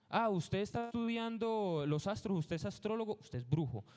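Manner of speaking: high suspicious questions falling to a verdict; mock church accuser. Medieval Church accusing someone who studies the stars, lightly mocked accusation. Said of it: "la Iglesia Católica le daba respuesta a todo".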